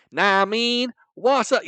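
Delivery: loud, high imitation of African-American vernacular; mock African-American vernacular. Showing how people attempt American, mock African-American vernacular. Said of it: "African-American vernacular".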